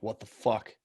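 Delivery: exasperated but held back; muted exasperation. Retold or imitated. Absolute what-the-fuck reaction.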